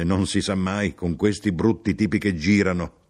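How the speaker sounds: chatty complaint to a stranger; lively grumbling. Acted. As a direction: confide a grumble with some energy. Traveller's lively take on echoed phrase.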